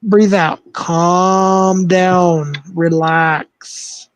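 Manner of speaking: slow, patronising breathing coach; condescending calm-down. Pretend. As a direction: talk him down like a child. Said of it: "Don't talk down to me like that".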